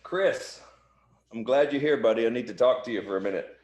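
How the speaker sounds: mock friendly boss. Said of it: "Jeff's like".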